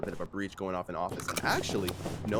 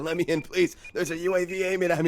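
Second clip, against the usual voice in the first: mock pleading; 8 semitones higher, 5 dB louder than usual. Acting a player's frantic plea.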